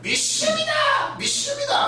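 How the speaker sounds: high squeaky cries of 믿습니다; mock fervent believer. Preacher mocking believers who shout their faith, high shrill cries.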